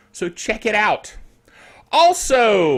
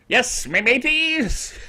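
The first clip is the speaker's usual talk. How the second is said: slow, hammed-up pirate greeting; a host greets viewers in a playful pirate voice; 4 semitones higher, slower than usual. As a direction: drawl it like a stage pirate. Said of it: "Talk Like a Pirate Day".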